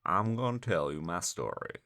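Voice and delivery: a hint of a solemn voiceover narrator; Morgan Freeman. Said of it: "using the Morgan Freeman setting".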